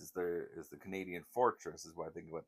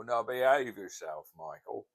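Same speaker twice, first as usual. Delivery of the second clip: slower, higher Cockney scolding; Cockney impression; 4 semitones higher, 5 dB louder than usual. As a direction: tease like old George. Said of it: "then he'd go".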